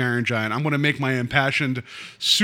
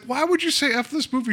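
much higher, hammed-up disbelief; mock incredulous; 12 semitones higher than usual. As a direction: play it up as baffled outrage at the wife. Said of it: "and I was like".

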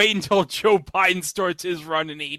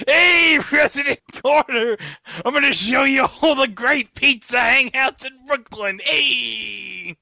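high, loud street shout; hollering across the street; loud calling out; 6 semitones higher, 3 dB louder than usual. Pretend. Imagined Brooklyn pizza guy calling out.

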